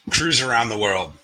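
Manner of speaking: poem title read aloud. Shown as a demonstration. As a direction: open the poem with a measured, deliberate title. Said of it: "All right, let's do this".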